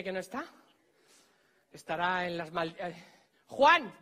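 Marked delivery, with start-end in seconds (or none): 3.5-3.9 loud, higher shout of a name; calling out. Pretend. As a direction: call to someone far away. Calls out to faraway Juan.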